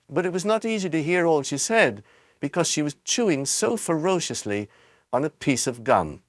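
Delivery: plain reading voice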